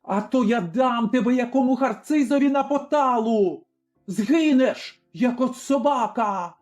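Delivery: venomous threat. A narrator's reading. Tavern keeper threatens the servant girl, furious. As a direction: threaten her with a dog's death.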